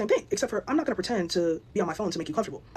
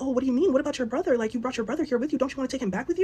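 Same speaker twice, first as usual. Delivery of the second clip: fake super nice; 6 semitones higher than usual. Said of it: "we're just gonna be super nice".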